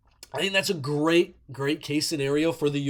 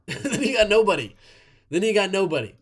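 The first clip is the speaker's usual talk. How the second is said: laughing; 3 semitones higher than usual. Real, not acted. Laughing at own grim point.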